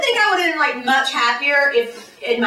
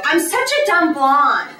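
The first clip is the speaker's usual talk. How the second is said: dumb blonde; 3 semitones higher, 4 dB louder, slower than usual. Retold or imitated. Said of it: "when other blondes go".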